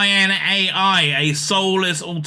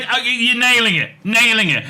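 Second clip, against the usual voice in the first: impressed gushing; 4 semitones higher, 3 dB louder than usual. Real, not acted. Reader gushes that AI nails it.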